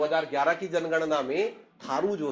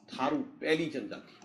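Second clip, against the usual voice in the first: "थारू पहली जनजाति" spoken slowly, word by word, for notes; slow dictation; 4 dB quieter, slower than usual. Shown as a demonstration. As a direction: dictate slowly so students can write it down. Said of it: "आप लिखो थारू". (धीमी आवाज़ में लिखवाना)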